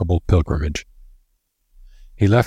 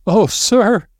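whimpering wail; 4 dB louder than usual. A narrator's reading. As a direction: moan it high and helpless. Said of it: "She was whimpering and wailing".

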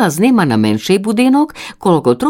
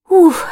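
high breathy puff of relief; relieved little uf; 13 semitones higher, 4 dB louder than usual. A narrator's reading. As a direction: blow out relief after landing. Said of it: "здихла".

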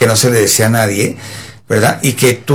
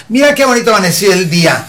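mildly hammed-up cheer, pitched higher; cheery caregiver; 5 semitones higher than usual. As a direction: play-act brightening a patient's morning. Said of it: "le abres la ventana y dices". (ánimo fingido para un enfermo)

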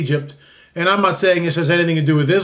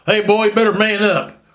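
put-on gruff old-school dad. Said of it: "little phrases like".

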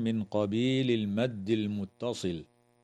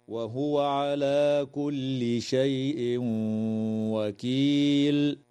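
recited stop; much slower than usual. Shown as a demonstration. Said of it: "هكذا".

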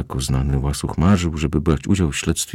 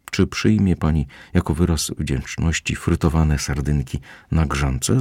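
waiter's bass. Acted. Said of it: "bas kelnera".

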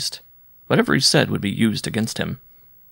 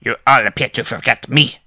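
higher, sulky complaint; petulant; 4 semitones higher, 5 dB louder than usual. A narrator's reading. Juggler complaining to the guests, petulant. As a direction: whine to be noticed. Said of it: "he said in a petulant tone".

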